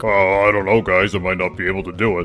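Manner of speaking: put-on, really deep voice. Voicing Yoshi replying to being asked about a race: deep Yoshi voice. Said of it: "would have a really deep voice like".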